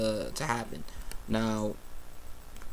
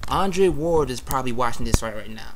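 voicing the thought louder, animated; acting out an eager inner thought; excited; 5 dB louder than usual. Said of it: "I was thinking in my mind, like".

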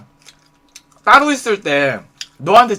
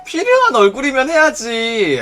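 slow, higher-pitched taunt; teasing, stretched-out jab; needling; 5 semitones higher than usual. Acted. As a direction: draw it out to get under their skin. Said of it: "너무 약 올릴 것 같아".

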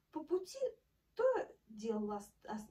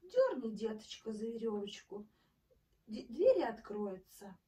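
a bit thinner voice; 5 dB louder than usual. Acted. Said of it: "сказал потоньше".

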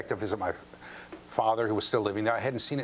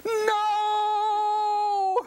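a high, louder, anguished "No!"; teen's horrified no; 4 dB louder than usual. Retold or imitated. Son at the shop window, high horrified wail. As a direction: wail it like a crushed teenager. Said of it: "in that tone of voice".

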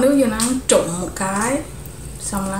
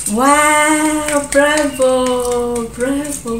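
higher cheering bravo; excited cheer; 4 semitones higher, much slower than usual. Real, not acted. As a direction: cheer her on. Cheering sister on.

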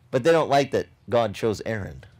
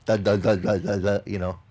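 stuttering demo; 6 semitones lower than usual. Shown as a demonstration. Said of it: "That's old lingo for".

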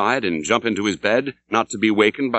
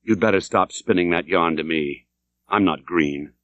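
quite calmly; 4 semitones lower than usual. Acted. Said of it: "said I quite calmly".

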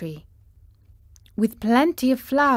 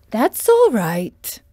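slow, louder bird voice; gentle big bird; kind stork; 3 semitones higher, 6 dB louder, slower than usual. Acted. Stork answers the Scarecrow kindly, slow.

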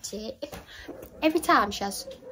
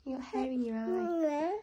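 high, loud cooing praise; 6 semitones higher, 8 dB louder than usual. Real, not acted. Mum praising the baby, high loud cooing.

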